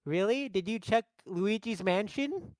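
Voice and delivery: questioning, mildly put-on female character; Peach. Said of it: "And Peach, she goes".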